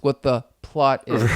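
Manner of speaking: slight pause, then a pointed "plot"; scare quotes on plot. Real, not acted. Co-host asking for the so-called plot, scare quotes on "plot". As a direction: set "plot" apart, as if in doubtful quotes. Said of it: "and I say that in quotes".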